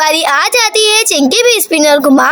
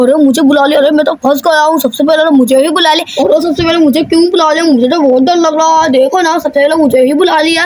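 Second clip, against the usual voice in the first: put-on nervous kid; 3 semitones lower, faster than usual. Scared boy begging not to be called first, quick nervous voice.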